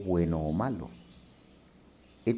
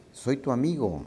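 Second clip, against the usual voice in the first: called out; 7 semitones higher than usual. A narrator's reading. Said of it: "le grita".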